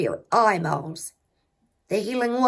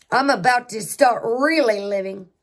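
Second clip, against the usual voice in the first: really pushed a bit louder, defiant; stress on really; 4 dB louder than usual. Retold or imitated. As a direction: lean into the word really. Defiant retort, repeated with emphasis.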